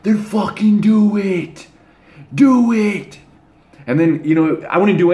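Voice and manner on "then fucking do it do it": much higher, strained angry yell, slow; angry retort. Retold or imitated. Boy answering brother's threat: high angry dare. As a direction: snap back in a high furious dare. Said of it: "I would instantly get angry".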